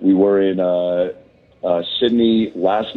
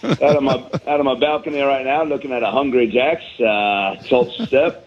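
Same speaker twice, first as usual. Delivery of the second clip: light Aussie twang, pitched up; mock Australian accent; 3 semitones higher than usual. Comedian describing his balcony view, mock Australian accent. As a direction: keep the jokey Aussie bloke going. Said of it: "picked up a little bit of an accent".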